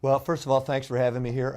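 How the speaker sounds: hoarse from a cold; rough, scratchy throat. Real, not acted. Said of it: "my scratchy voice".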